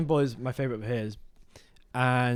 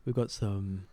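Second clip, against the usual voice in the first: podcast host parody. Retold or imitated. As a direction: whisper it like a cozy podcast. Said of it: "I'll do a version of Sophia's podcast".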